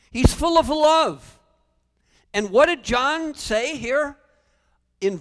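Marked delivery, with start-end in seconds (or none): 0.1-1.4 louder, higher and slow, full voice; soaring preached climax. Real, not acted. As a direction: lift the whole church on love.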